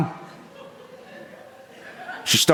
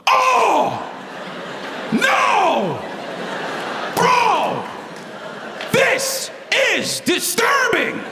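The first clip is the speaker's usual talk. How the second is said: high shocked shouting buddy; drawn-out disturbing, shouted high; mock horrified yell; much slower than usual. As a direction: yell out in disgust at the box. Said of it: "my boy just goes".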